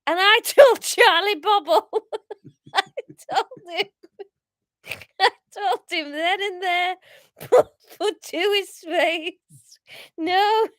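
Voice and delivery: impassioned amateur Scouse monologue, near giggles; hammed-up Scouse. Paul refusing to give up his turtles, hammed-up Scouse. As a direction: swear it solemnly in bad Scouse. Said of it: "Um, Scouse".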